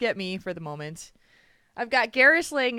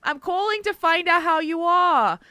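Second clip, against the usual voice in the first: put-on higher, sweet old grandma calling to check in; grandma on the phone; 10 semitones higher, 7 dB louder than usual. Imitating grandma phoning about a heart problem, sweetly. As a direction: play the fussing grandma, sing-song and caring. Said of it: "every time she goes".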